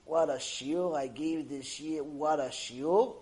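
slow, savoring mock self-praise; slow, impressed-with-himself boast; self-satisfied rabbi. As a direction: imitate a rabbi pleased with himself. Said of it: "this rabbi feels good about himself".

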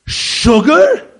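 a loud, high, horrified "Sugar?"; shocked outburst. Retold or imitated. Coffee-loving friend hears sugar is wanted, shocked loud cry. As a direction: recoil as if he's heard of a crime. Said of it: "He looked like I'm some sort, like I'm a murderer".

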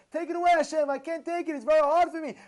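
high, loud acted plea; begging. Sufferer begs Hashem to lift hardship, urgent acted plea. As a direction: implore at full voice for relief. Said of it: "Keep on begging Hashem".

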